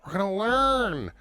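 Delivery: booming podcast host intro, slow; over-the-top intro. Acted. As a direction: shout the welcome like a showman. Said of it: "That's a lot of enthusiasm, though, with the intro".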